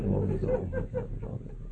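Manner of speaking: high, far-off plea to the shrine; high pleading cry, let me in. Retold or imitated. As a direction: beg at the shrine gate.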